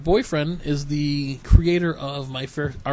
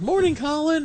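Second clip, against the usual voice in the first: higher, sing-song group hello; mock chorus greeting; 12 semitones higher than usual. Fans greeting Colin Baker, mock sing-song hello. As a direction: greet the star all together. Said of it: "everyone's like".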